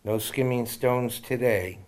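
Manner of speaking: measured, gentle poem recital; poem reading. Acted. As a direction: read it like a heartfelt poem. Reads his friend's poem aloud.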